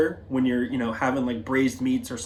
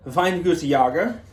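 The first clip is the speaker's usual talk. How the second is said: drawn-out, badly faked German accent; awful Austrian-German accent; 3 semitones higher, slower than usual. Shown as a demonstration. Wine rep having fun butchering an Austrian winery's name, mock German accent. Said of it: "my absolutely awful Austrian German accent".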